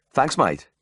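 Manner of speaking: overwhelmed, grateful patient; breathed thanks. A narrator's reading. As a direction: sigh out relieved thanks. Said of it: "he breathed".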